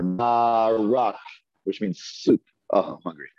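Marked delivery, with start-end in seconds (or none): 0.0-1.2 slow, drawn-out demo of marak; slow model word. Shown as a demonstration. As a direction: say marak slowly for the class. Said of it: "say there".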